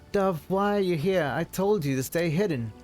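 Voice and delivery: worried and startled, pressing her; alarmed husband. Acted.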